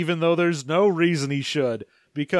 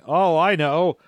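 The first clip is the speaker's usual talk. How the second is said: hammed-up fake victim; slower than usual. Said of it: "Sliffer is like".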